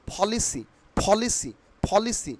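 "পলিসি" with breath-puffed P; correct pronunciation. Shown as a demonstration. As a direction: say "পলিসি" as "pho-li-si". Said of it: "কি উচ্চারণ হবে". ("পলিসি"-তে ফ-এর মতো প)

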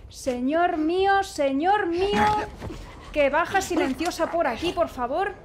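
frantic pleading at the game; loud pleading. Real, not acted. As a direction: beg for luck out loud. Pleading while sneaking past enemy.

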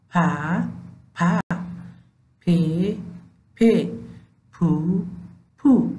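پ joined to each short vowel; teacher drilling پ with short vowels; syllable drill. Shown as a demonstration. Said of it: "با صدادارهای کوتاه".

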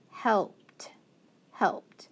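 helped, helped whispered. Shown as a demonstration. Teacher to students, whispering the finished word helped. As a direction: breathe helped with no voice. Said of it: "and then the E D".

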